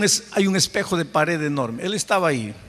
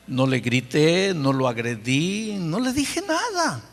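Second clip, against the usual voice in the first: indignant protest; slower than usual. Retold or imitated. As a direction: justify yourself, offended. Pastor defends himself, indignant. (pastor indignado se justifica, lento y agudo al final)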